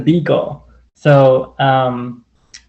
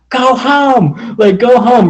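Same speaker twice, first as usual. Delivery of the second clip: mock yell; 9 semitones higher, slower than usual. Yelling at a German Shepherd to go home. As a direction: shout it up high to scare the dog off. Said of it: "at the top of my lungs".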